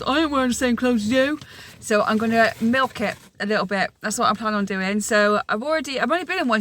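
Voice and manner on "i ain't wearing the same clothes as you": a light, mock-sulky child refusing; hint of a fed-up son; grumpy kid voice. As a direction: imitate a stroppy little boy, lightly. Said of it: "before he goes".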